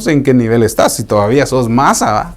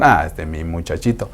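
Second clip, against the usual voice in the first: lightly voiced Lord sending his child to be shaped; a hint of a gentle God speaking. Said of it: "Y dice el Señor".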